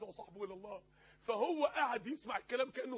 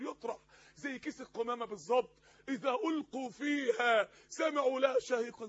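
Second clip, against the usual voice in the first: emphatic warning, key words thrown out loud; forceful preaching; 6 dB louder than usual. Acted. Preacher describing sinners thrown into Hell, forceful and stern. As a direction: stretch the scripture, hammer the comparison.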